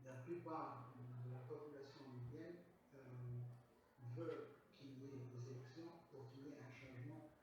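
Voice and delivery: non-native French, Arabic-tinged accent; foreign accent in french. Real, not acted. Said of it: "mon français n'est pas très bien". (accent étranger arabe en français)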